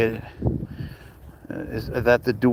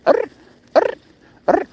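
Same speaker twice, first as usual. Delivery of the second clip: imitated sleepy growl; 3 dB louder, faster than usual. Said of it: "He makes a certain sound for it".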